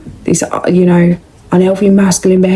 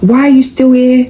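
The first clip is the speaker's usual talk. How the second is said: raised-pitch incredulous why are you still here; exasperated question; 5 semitones higher, 3 dB louder than usual. Retold or imitated. To an ex who texted again, raised incredulous question. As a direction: push the question up in disbelief. Rejecting ex who contacted her.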